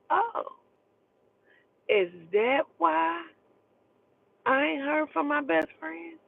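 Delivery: high, slow, mock-shocked question; sarcastic surprise. Discovering the friend's secret.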